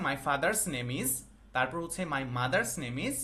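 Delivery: slow, careful dictation pace; slow model reading. Shown as a demonstration. Teacher modelling the right sentence for students, slowly. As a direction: spell it out slowly so the class can copy. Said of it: "যেমন হচ্ছে আমার পিতার নাম".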